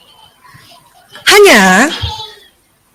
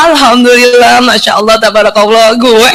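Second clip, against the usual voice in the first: mock pious brag; 5 semitones lower than usual. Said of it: "dengan sombong".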